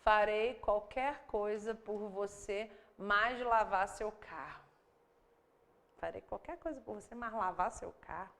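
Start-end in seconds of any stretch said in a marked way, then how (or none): 0.0-4.6 slow, deliberate word-by-word literal translation; awkward literal reading. Shown as a demonstration. Teacher reading a clumsy literal translation slowly. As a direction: read it out stiffly, word by word. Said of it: "ela fica tão esquisita".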